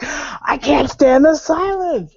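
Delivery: slow, high, drawn-out mock complaint; mock exasperation. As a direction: whine it out like it's unbearable. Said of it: "it was like".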